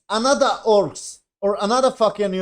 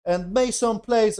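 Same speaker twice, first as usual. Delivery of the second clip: mock pleading character; 5 semitones higher, 3 dB louder, slower than usual. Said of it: "And he was like".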